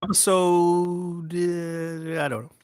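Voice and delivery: panting, out of breath after rushing; breathless, catching air between words. Real, not acted. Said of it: "I'm out of fucking breath".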